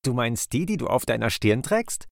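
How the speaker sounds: gently teasing, point out the obvious; amused bird. Acted. Kingfisher shows otter the goggles on his forehead, amused. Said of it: "fragte der Vogel kichernd".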